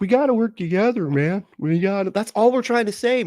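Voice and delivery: high, whiny parody of a preacher pleading for unity; mock them in a sing-song high voice, pleading; mocking impression. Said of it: "It's like".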